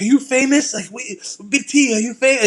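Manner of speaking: high-pitched mock questioning from starstruck guests; imitated German guests. German guests asking their host if he's famous, imitated in a high voice. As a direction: imitate curious fans, voice jumping up high. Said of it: "these Germans are asking me".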